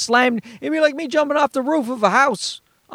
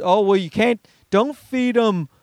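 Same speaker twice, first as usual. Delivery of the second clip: mocking quote. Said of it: "I hate that when they just".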